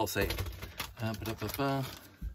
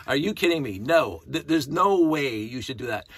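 louder, higher, fed-up disbelief; exasperated outburst; 4 semitones higher, 6 dB louder than usual. Real, not acted. Fan ranting about a movie scene, exasperated and loud. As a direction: rant at the screen in disbelief.

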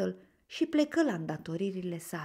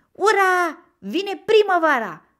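high, loud cheer; joyful shout; 12 semitones higher, 13 dB louder, slower than usual. A narrator's reading. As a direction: cry out in jubilation. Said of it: "un strigăt de bucurie". (strigăt de bucurie)

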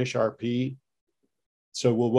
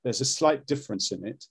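the newer, lighter British sound; modern Standard British; 3 dB quieter than usual. Shown as a demonstration. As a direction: demo "slight difference" in modern RP. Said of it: "modern Standard Brit's a little bit more like this".

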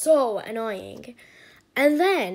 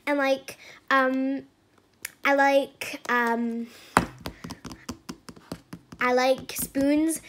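mock ASMR youtuber. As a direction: send up a rambling slime youtuber. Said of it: "Here's an example".

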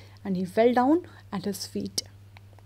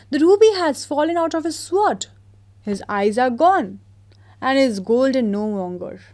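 mayor complaining; 3 semitones higher, 5 dB louder than usual. Acted. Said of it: "said the mayor".

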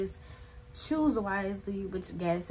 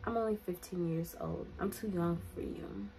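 firm quiet rebuff; 7 dB quieter than usual. Retold or imitated. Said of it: "I'm like".

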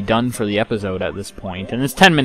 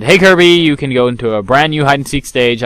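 Zeke impression; 5 semitones higher, 6 dB louder than usual. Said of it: "that sounded nothing like Zeke".

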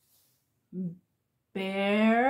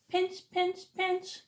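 crab pinching; 6 semitones higher, 6 dB quieter than usual. Pretend.

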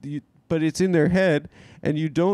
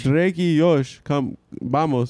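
put-on Mexican accent; slower than usual. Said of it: "They can never say Jordan".

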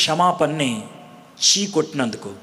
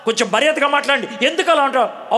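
indignant protest; 6 semitones higher than usual. Acted. Prisoner protests rude jailer.

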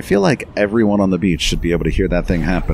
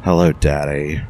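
aging drag queen voice. Acted. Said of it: "Don't use my aging drag queen voice".

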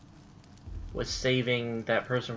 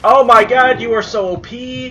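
high exasperated yelling; yelling at a bear; 10 semitones higher, 14 dB louder than usual. Real, not acted. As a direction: shriek in disbelief. Bear overpowering him.

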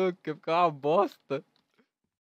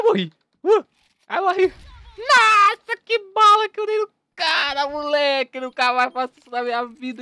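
high, loud hammed-up panic; panicking gamer; 9 semitones higher, 7 dB louder than usual. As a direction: shriek and yelp like a frantic gamer. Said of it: "Era só pra o vídeo ficar um animadinho".

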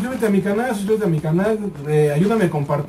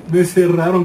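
laughing; 5 dB louder than usual. Real, not acted. Still laughing at the game.

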